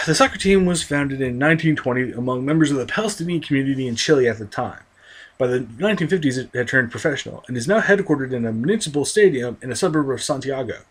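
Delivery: steady, even read-aloud voice, lighter on the swearing; reading an article aloud. Acted. Vlogger reads an article on Palestino to viewers, measured reading voice. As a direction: read the passage out like a columnist.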